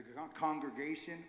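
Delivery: stumbling over a word; stuttering. Real, not acted. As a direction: trip on the word congregation. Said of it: "Ooh, I'm stuttering a little bit".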